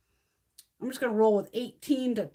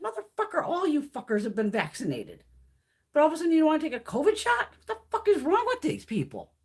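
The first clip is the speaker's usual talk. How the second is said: high-pitched outraged rant; indignant, worked-up telling-off; exasperated anger; 4 semitones higher than usual. Retold or imitated. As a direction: lay into them, fed up and incredulous. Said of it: "they make me angry".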